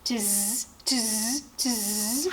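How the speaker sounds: buzzy, drawn-out monkey noise, rising at the end; mock him like monkeys, in buzzing hisses; monkey chatter. A narrator's reading. Monkeys shake fingers back at the peddler, mocking chatter. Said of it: "the monkeys ... said".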